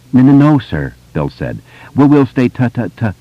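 nervous stutter to the cop. A narrator's reading. Bill stutters reply.

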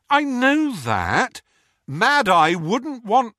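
high, loud, slow pleading; urgent pleading. Acted. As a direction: beg him to stay. Pleading with Harry.

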